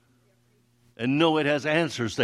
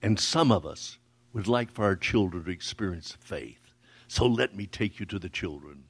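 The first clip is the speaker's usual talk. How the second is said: voice quivering with emotion; 6 semitones lower than usual. Retold or imitated. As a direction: retell her words gently moved, understated. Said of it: "in a voice quivering with emotion".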